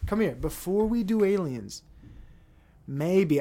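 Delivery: hammed-up schemer selling a plan; mock government pitch. Schemers pitching their plan to Elon, loud and eager. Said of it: "look at the script and say".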